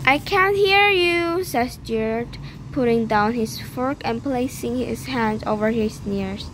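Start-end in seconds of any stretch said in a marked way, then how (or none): 0.0-1.4 1 loud refusal. A narrator's reading. Stuart covers his ears.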